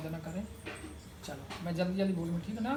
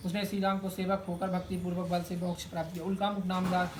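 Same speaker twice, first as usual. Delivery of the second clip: rapid, even-pitched katha reading; scripture recitation. Acted. Priest reading the Satyanarayan katha to worshippers, rapid recitation. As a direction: rattle through the sacred story. Reads the katha aloud in ritual.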